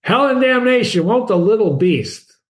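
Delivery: hammed-up fury at the crying child; captain cursing the baby, mock rage; enraged curse. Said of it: "The captain flew into a rage".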